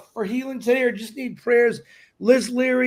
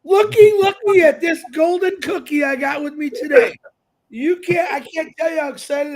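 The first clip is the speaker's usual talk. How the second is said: loud, high, hammed-up hype shout; hyped-up shouting; 6 semitones higher, 7 dB louder than usual. Host greeting the audience, showing off his golden cookie, loud hammed-up hype shout. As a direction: sell the golden cookie like a carnival barker.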